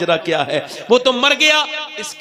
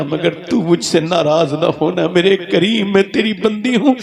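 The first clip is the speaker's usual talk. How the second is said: crying plea. Acted. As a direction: beg for mercy through tears. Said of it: "रो के बोली".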